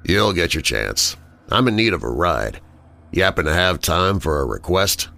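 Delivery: lightly voiced smug villain; condescending. Villain asking James for a ride, lightly condescending. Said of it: "he definitely sounds condescending".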